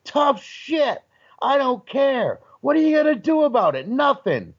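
high-pitched defiant taunting; getting nasty. Retold or imitated. Wrestler defying the angry husband, nasty retelling. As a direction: act out scornful defiance, punching each phrase. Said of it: "I'm getting nasty".

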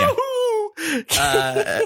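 cartoonish high yell of joy; high whooping yahoo. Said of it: "filler noises where he's like".

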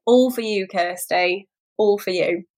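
lightly voiced Scottish brogue; a half-hearted stab at Scottish; dedicating the bad accent to Kirsty, mock Scottish. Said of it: "Razzie with that accent work".

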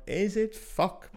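reliving the moment the bank calls about six thousand euro, stunned; shocked disbelief. Retold or imitated. Caught off guard by the bank, disbelieving gasp. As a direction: squeak up high, then a breathless whispered curse. Bank call reveals stolen money.

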